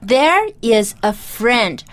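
There is a friend read slowly, word by word; slow careful repeat. Shown as a demonstration. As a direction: say the verse slowly for learners. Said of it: "这句话应该再重复一次".

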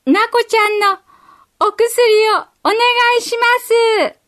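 put-on small girl calling up to a high window; 高い声で呼びかける幼い女の子; little girl calling out. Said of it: "大きな声で言いました".

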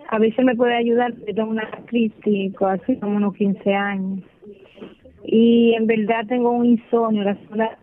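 caller breaking up on a bad phone line; crackly cordless phone cutting in and out; choppy phone line. Real, not acted. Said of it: "Se escucha entrecortado".

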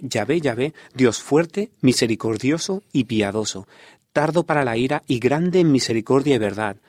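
solemn, measured Bible reading aloud; scripture reading. Acted. Radio guest reads Exodus to listeners, emphatic scripture reading. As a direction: read out God's self-description with emphatic phrasing.

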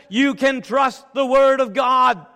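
loud, emphatic, stressing word; preaching shout. Real, not acted. Preacher assures the congregation, loud emphatic proclamation. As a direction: proclaim it to the whole church.

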